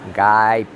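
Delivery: Gap said as Gaip, vowel gliding to i; English Gaip. Shown as a demonstration. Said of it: "a Inglaterra fala Gaip".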